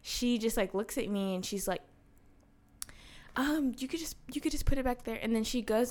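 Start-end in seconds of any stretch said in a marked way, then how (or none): 3.3-5.2 imitating the frazzled lady's small, higher whisper; timid whisper. Frazzled grandmother at a food drive, answering in a hushed whisper. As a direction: breathe it out unsure and shy.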